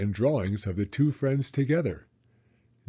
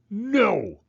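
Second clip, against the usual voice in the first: sharply higher, loud refusal; yelled no; 11 semitones higher, 4 dB louder than usual. A narrator's reading. Franklin refusing his mother, yelling no. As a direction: shout it back defiantly. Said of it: "he yelled".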